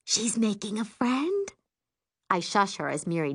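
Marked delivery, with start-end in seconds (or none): 0.0-1.5 higher, hopeful rising question; excited. A narrator's reading. Mom hearing daughter has a friend, excited. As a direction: lift it upward in happy disbelief. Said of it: "she asks excitedly".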